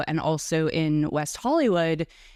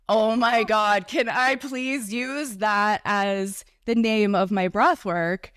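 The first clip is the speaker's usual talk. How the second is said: thrilled; 4 semitones higher, slower than usual. Retold or imitated. Retold reaction to guest's phrase.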